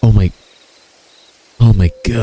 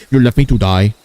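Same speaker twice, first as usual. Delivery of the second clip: lightly accented Indian impression at normal pitch; comic Indian accent; mock Indian accent. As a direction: repeat it as an Indian-accented accusation. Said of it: "That's how he sounds like".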